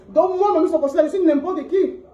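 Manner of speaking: drawn out, each word slow; slow wounded repeat. Real, not acted. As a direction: drag it out, hurt and bitter.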